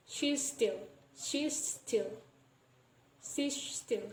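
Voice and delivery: "she's still" with the two S sounds merged; "she's still" said as shes-till; assimilated S. Shown as a demonstration. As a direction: join "she's still" on one S. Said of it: "we pronounce it as she's still".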